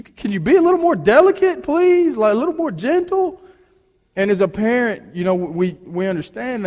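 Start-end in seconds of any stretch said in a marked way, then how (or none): 0.0-3.4 high, pleading plea to the nurse. Retold or imitated. Father begging the nurse handling his newborn, high and pleading. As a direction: beg her to be gentle, voice way up.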